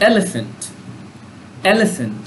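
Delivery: এলিফ্যান্ট with the first E punched; stress on the E. Shown as a demonstration. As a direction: lean on the opening E of এলিফ্যান্ট. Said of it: "ইর উপরে চাপ দেওয়া হয়েছে".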